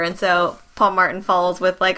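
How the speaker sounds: ordinary talk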